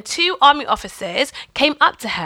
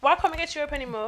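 mock incredulous; 6 semitones higher, 7 dB quieter, faster than usual.

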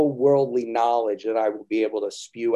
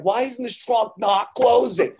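puzzled; 11 semitones higher, 5 dB louder, slower than usual. Retold or imitated. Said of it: "I'm like".

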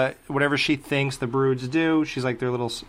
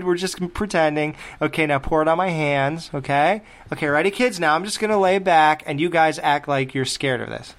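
mock director coaxing kids; 4 semitones higher than usual. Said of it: "they must have said".

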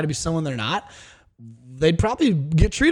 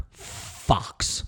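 whispered aside; 9 dB quieter than usual. Real, not acted. Leering aside about the singer.

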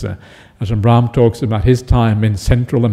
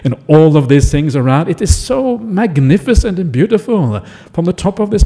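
excited marvelling. Acted. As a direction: share the wonderful view eagerly. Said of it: "And he says".

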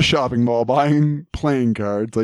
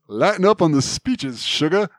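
put-on Rogue's Southern accent; 5 semitones higher than usual. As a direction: attempt a Southern Louisiana accent, sweetly teasing. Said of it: "I can't quite do the accent".

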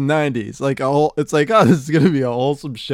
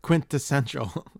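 pompous imitation; 6 dB quieter, slower than usual. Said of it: "like Squeezer. In your pompous way".

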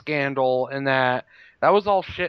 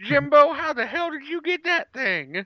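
hammed-up redneck voice, pitched way up; Southern hick accent; 11 semitones higher, 3 dB louder than usual. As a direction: ham up a Georgia redneck, much higher. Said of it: "if they did it in, like, Georgia".

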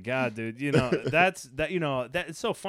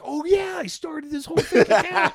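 laughing recall; 13 semitones higher, 7 dB louder than usual. Retold or imitated. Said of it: "And I'm like".

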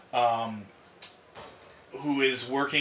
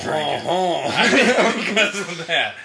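laughing; 5 semitones higher, 8 dB louder, much slower than usual. Real, not acted. Laughing confession.

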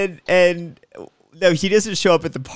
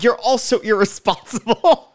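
mock yelling; 8 semitones higher than usual. Mom scolding everyone at the party, mock yelling. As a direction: imitate a mother telling everyone off. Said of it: "She's yelling at".

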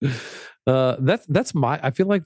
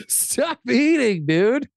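laughing scold; 11 semitones higher, slower than usual. Real, not acted. Laughing scold at eating friend.

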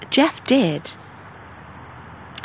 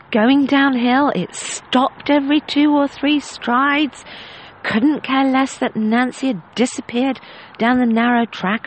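frustrated lady; 2 semitones higher than usual. Retold or imitated. Dinner guest complaining about a borrowed horse, exasperated. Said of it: "immense frustration in her voice".

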